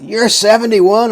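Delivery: high, slow, stretched gasp of disbelief; imitating the kid's stunned question; shocked disbelief. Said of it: "he said that like, "Oh my God, you're dead".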